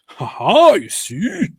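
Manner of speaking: mock gleeful gotcha. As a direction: crow over the point like a troll. Mocking gloating commenter.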